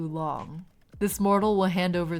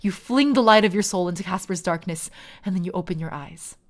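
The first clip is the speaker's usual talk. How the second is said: story narration. A narrator's reading. GM narrates the soul crossing.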